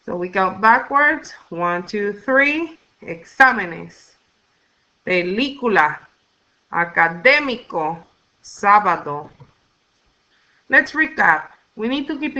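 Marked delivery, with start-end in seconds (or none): 3.0-9.3 spaced-out Exámenes, Película, Académico, Sábado, weight on the accented vowel; third-to-last stress. Shown as a demonstration. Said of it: "stress on the third to the last syllable".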